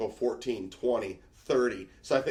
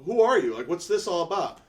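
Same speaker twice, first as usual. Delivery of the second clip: aggressive guy; 7 semitones higher, 4 dB louder than usual. Retold or imitated. Hockey guy confronting.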